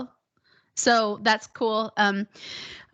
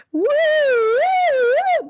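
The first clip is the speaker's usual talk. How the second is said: very high, loud swooping woos; head-voice woo; 6 dB louder, much slower than usual. Shown as a demonstration. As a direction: send repeated woos up into the head. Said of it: "You'll feel vibrations in your head cavity".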